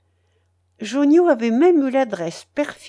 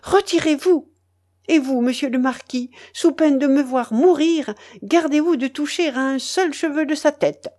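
higher, louder, pleading threat; urgent commanding; 5 semitones higher, 4 dB louder than usual. A narrator's reading. Marquise protecting the vicar from her husband, urgent. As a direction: order them apart at once.

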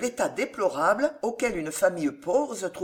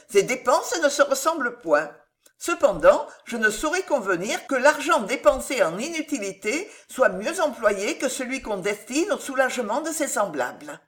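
higher, lightly voiced young woman; lightly acted earnest rebuttal, higher; firm young heroine; 6 semitones higher than usual. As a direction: politely stand your ground.

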